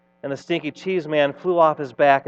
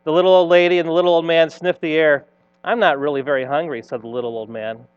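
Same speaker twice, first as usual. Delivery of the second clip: put-on animated read-aloud for children; playful storyteller narration; story reading. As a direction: tell it like a storybook, with lively swells.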